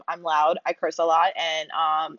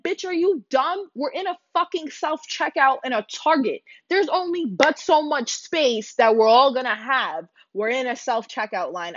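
much higher, incredulous telling-off; retold heated retort; 4 semitones higher than usual. Narrator retelling her retort to the Karen, high and incredulous. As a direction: snap back, pitched way up. Arguing with Karen at self-checkout.

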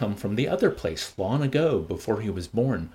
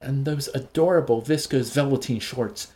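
put-on gushing old woman; 5 semitones higher than usual. Linda gushing over clothes.

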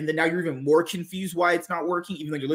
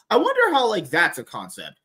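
mock wondering; 2 semitones higher, 4 dB louder than usual. Host scoffing at the supposed mystery of dominant partners, sarcastic wondering. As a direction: wonder aloud sarcastically, voice leaping up. Mocking supposedly puzzling double standard.

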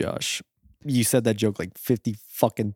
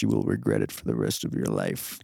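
mock stern warning; 12 semitones lower than usual. Warning friend against tattoo.

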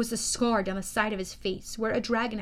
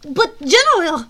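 put-on loud, higher French-accented plea; alarmed protest; 6 semitones higher, 12 dB louder than usual. A narrator's reading. Thorne pleading with the general, alarmed. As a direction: protest urgently to a feared boss. Underling protests his rebuke.

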